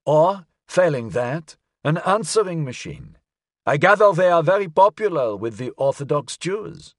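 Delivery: high-voiced old gentleman; elderly man. A narrator's reading. Elderly caller advising the detective, old man's high voice. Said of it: "sounded as if it belonged to an elderly man".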